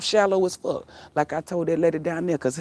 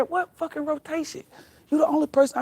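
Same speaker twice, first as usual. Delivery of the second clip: imitating the man; 9 semitones higher than usual. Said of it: "He said".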